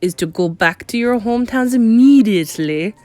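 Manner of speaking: emphatic, commanding decree; thundered. A narrator's reading. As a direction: order the crowd, rising in force. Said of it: "thundered the Grand High Witch".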